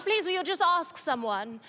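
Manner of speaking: a hint of a wheedling kid; pleading child. Daughter begs her mother.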